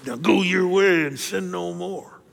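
slow, stern and condemning; stern scolding. Shown as a demonstration. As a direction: lay down the law, slowly. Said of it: "I think Jesus said it like this".

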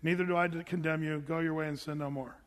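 deadpan, expressionless Jesus line; blank face. Shown as a demonstration. Preacher shows a deadpan Jesus forgiving the woman. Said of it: "Now let me do a blank face".

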